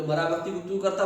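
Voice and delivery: can't believe a dead man talks; incredulous question. Acted. Villager incredulous. (अविश्वास से ऊँचा सवाल)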